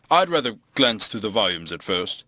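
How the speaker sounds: lightly voiced hesitant vicar; evasive vicar. A narrator's reading. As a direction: politely put off the task.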